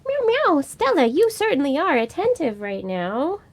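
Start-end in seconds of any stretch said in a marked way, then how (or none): 0.1-0.6 high playful meow, meow; meowing at the cat. Pretend. Owner meowing at her cat, high playful meow. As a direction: mew back at the cat in a high voice.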